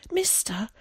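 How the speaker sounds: put-on high, breathy child's call; winded little boy calling up; panting. A narrator's reading. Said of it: "he panted".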